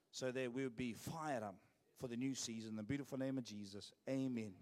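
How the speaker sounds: earnest pastor's prayer, steady and fervent. Acted. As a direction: pray it out over the pastor. Leads a prayer.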